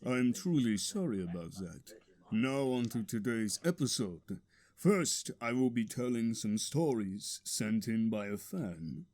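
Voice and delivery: low, soft, intimate host murmur; sensual hushed voice. Acted. Host apologizes after being told to whisper, low and hushed. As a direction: drop into a sultry near-whisper. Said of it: "whisper more often for Christ's sake".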